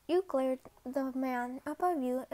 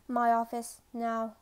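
low-pitched, intimidating command; Levi; 4 semitones lower than usual. Acted. Corporal ordering a cadet to his office, intimidating. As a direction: give a curt order in a lowered pitch. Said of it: "commanded in an intimidating voice".

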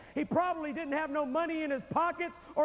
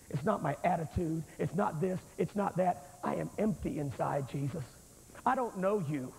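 lower, a touch of a broken confession; humble confession; 4 semitones lower than usual. Acted. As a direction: pour it out like an empty man. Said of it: "lay him on the table and say".

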